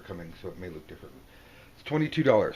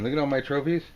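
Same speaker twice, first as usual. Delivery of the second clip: louder, proud showing off; louder smug boast; 5 semitones higher, 5 dB louder, faster than usual. Acted. Smug card figure showing off his trophies, louder.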